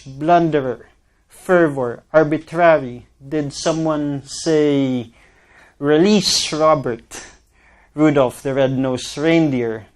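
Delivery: careful R sounds over each word; R practice words. Shown as a demonstration. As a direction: work each R deliberately. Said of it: "speech impediment".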